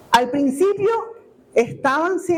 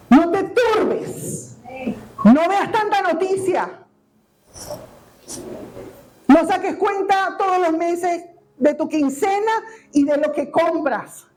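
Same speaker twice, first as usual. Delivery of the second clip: gentle consolation; 4 semitones higher than usual. Retold or imitated. The Lord consoling the believer.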